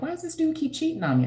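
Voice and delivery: high, fast whiny complaint; mocking whiny girlfriend. Vlogger mimics a viewer's whine, high and fast. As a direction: mimic a clueless girl whining about her man.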